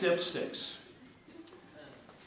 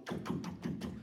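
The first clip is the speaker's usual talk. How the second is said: heartbeat; 7 dB quieter than usual. Retold or imitated. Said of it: "your heart goes".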